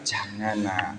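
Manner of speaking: put-on soft, low plea to a child; gently restrain an annoying child; patient father. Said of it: "sudah menjengkelkan bilang". (ayah sabar, suara pelan dan rendah)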